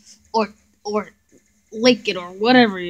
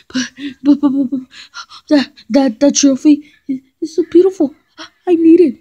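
pleading; 5 semitones higher than usual. Acted. Pleading for the trophy.

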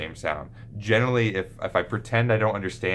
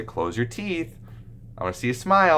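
put-on coaching a child; 4 semitones higher than usual. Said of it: "and I'll say".

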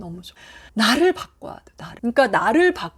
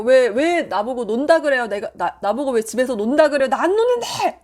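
mock indignant yelling. Housewife denying she idles at home, mock indignant outburst. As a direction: play it aggrieved, pitch shooting up at the end. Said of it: "그렇게 소리질러 봤자".

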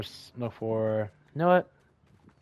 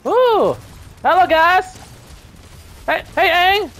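high, loud teasing hello; mock greeting; 7 dB louder, much slower than usual. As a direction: greet the enemies with a sneer. Spotting enemy players to attack.

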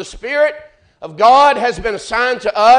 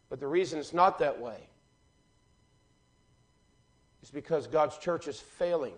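much softer and lower, close and earnest; hushed preaching; 4 semitones lower, 10 dB quieter than usual. Acted. Preacher confiding to the church, soft and low. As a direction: drop to a near hush, as if confiding. Quiet intimate stretch of sermon.

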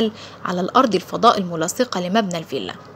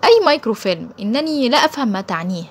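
a touch of mock astonishment, pitched up; feigned surprise; 3 semitones higher than usual. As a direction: act innocent, lightly surprised. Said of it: "وتصنع الدهشة".

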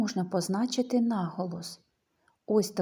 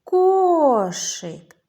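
loud, high call, long KO in «Кошик»; 6 semitones higher, 7 dB louder than usual. Shown as a demonstration. Teacher calls with children to find stress, «Кошик» hollered. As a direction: call «Кошик», stretching the stressed first syllable. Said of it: "Давайте погукаємо".

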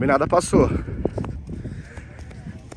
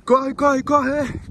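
being chased; 5 semitones higher, much slower than usual. Real, not acted. Urging runner to chase car.

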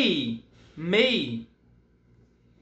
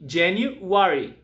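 model for repeating; much slower than usual. Shown as a demonstration. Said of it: "Repeat with me".

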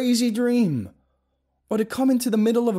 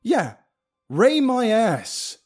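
loud, high frantic rant; ranting yell; 13 semitones higher, 7 dB louder than usual. Acted. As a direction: rant at full volume, unhinged. Paranoid rant at friend.

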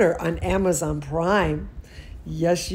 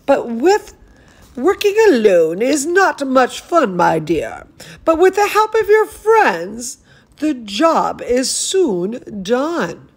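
said kindly; 3 semitones higher, 4 dB louder than usual. Acted. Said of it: "Her teacher said kindly".

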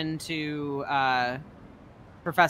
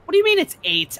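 high, louder incredulous; mock outrage; 11 semitones higher, 5 dB louder than usual. Player baffled by a puzzle answer, high mock outrage. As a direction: demand it in high exasperation. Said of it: "where I'm like".

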